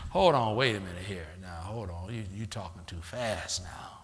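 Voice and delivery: low, soft, then whispered stop; hushed self-warning. Retold or imitated. Believer whispering to catch the devil's fast talk. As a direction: pull yourself up short in a whisper.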